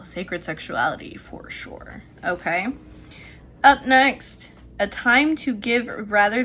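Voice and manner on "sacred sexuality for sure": whispering. Real, not acted. Murmured aside.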